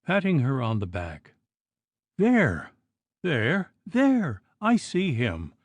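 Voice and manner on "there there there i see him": terrified cry. A narrator's reading. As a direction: point at the ghost in terror. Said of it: "she cried again".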